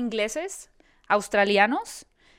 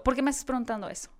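mock irritated reply; 3 semitones higher, much faster than usual. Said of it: "Y lo".

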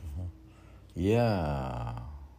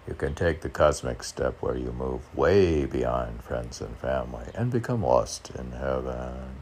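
poem reading; 4 semitones lower, 4 dB louder than usual. Shown as a demonstration. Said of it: "I'm reading the advice from my own poetry".

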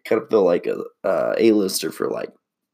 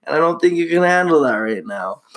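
deadpan threat; 4 semitones higher than usual. Retold or imitated. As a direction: calmly threaten like a joke. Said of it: "and he's like".

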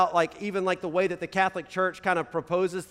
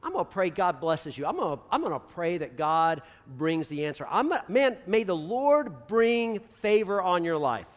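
eager blessing. Pretend. Pastor urging church to bless people, eager mock blessing. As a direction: bless a stranger with sudden enthusiasm. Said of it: "try just out loud telling some people".

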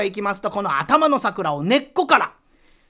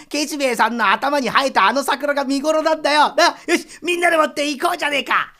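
威勢のいい誘い; 2 semitones higher, 4 dB louder than usual. Acted. 江戸っ子が花見に誘う.

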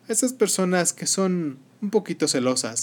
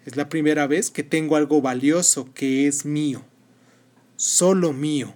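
calm storyteller reading a tale; story narration. Acted. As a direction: narrate gently, like a bedtime story. Reads the story Posesividad aloud.

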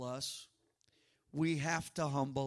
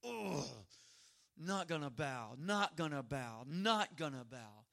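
stubborn refusal; 2 semitones lower, 4 dB quieter than usual. Retold or imitated. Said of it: "they shook their fist at the sky".

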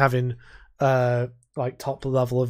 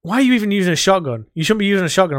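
mock whiny opponent; 4 semitones higher, 5 dB louder, faster than usual. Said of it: "they'd be like".

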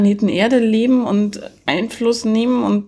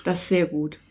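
pillow talk; 3 semitones lower, 8 dB quieter than usual. Acted. Hushed reply in bed skit.

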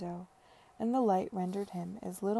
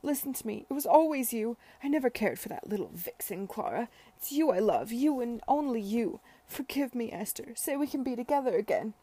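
put-on high, impassioned drunken begging; wailing plea; 4 semitones higher, 5 dB louder than usual. A narrator's reading. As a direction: plead loudly, wailing for a second chance. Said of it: "he wailed".

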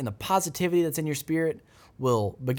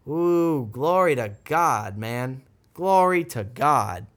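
fervent praise; 5 dB louder, slower than usual. Real, not acted. Preacher exclaims praise.

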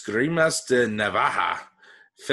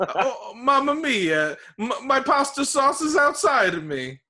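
much higher, slow stage-Italian wail; hammy boisterous chef; 12 semitones higher, 4 dB louder than usual. Acted. Mock Italian chef lament.

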